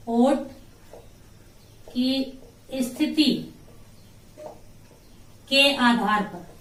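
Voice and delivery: word groups parted by long pauses; drawn-out, piece-by-piece dictation; slow dictation. Shown as a demonstration. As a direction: dictate slowly as if writing along. Dictates phrase while writing it.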